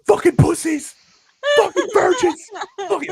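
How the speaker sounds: high, loud jeering shout; mock yell. Rival fans jeering the Cardona crowd, mock shouting. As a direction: bellow the insults. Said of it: "They're like".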